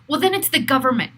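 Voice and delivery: exasperated frustration at the government; real anger. Real, not acted. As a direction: let the anger push the words out fast. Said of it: "You can even hear in my voice that I'm still angry".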